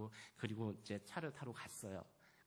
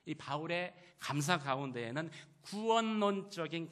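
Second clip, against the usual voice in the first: loud, higher-pitched preacher's voice; forceful preaching; 5 semitones higher, 7 dB louder than usual. Real, not acted. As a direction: press the point home to the congregation. (힘 있게 외치는 설교)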